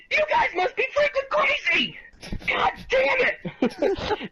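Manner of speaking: high, strained half-crying shout; exasperated outburst. Real, not acted. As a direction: yell in mock despair. Ranting at lappers.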